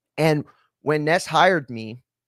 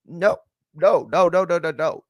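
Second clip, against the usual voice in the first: retold shocked no, pitched way up; frantic, high no no no at the vet's price; mock panic at a four-grand bill; panicked refusal; 4 semitones higher, 3 dB louder, slower than usual. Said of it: "We're like".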